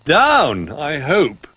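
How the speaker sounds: a little bear hoping. Acted. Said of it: "said Little Bear".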